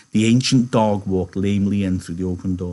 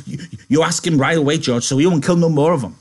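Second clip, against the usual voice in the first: high, loud, stammering plea; urgent, excited pleading; 7 semitones higher, 6 dB louder than usual. Acted. Lenny pleading with George to save pups, excited and urgent. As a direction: plead eagerly, pitched up and loud.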